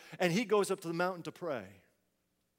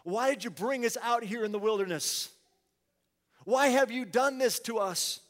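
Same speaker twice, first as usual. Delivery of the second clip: whiny, rising complaint, somewhat louder; complaining Israelites; 2 semitones higher, 3 dB louder than usual. Acted. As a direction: voice the grumbling crowd to Moses. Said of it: "they began to complain to Moses".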